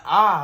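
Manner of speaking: loud, high mock scream of pain; short pained yell, replayed for laughs; retold scream. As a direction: yell out as if the finger just got crushed. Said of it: "I'm screaming".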